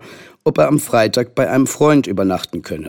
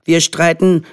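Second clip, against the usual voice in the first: put-on high, slow child's voice; wheedling little boy; 7 semitones higher, slower than usual. A narrator's reading. Henry playing down the fights to mothers, wheedling. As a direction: stretch it out coaxingly.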